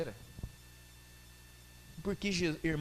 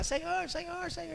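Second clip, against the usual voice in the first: pleading; 10 semitones higher, 7 dB quieter than usual. Acted. Woman begging Jesus behind him.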